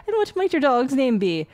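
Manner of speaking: bad Irish accent. Priest asking about the girl's dog, bad Irish accent. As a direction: ask with a mock-Irish lilt. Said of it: "I apologize for my bad accent".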